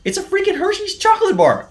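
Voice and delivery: exasperated exclaim. Real, not acted. To viewers about the shoe tag, high disbelieving squeal. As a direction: pitch jumps way up in disbelief.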